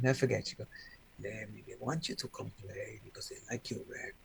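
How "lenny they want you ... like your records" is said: heavy, low, very hushed voice. Speaker recalls being invited to play in Ibiza, doing Francesca's heavy voice. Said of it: "She's got a heavy voice".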